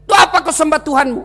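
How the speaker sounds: lightly voiced devil, high-pitched; a hint of an insistent, taunting devil; tempting devil. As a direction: needle him as the tempter. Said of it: "datang lagi iblis".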